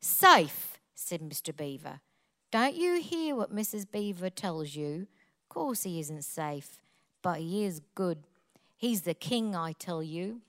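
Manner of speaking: low, soft Cockney reading after a punched first word; Cockney accent. Shown as a demonstration. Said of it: "Please read it with a Cockney accent".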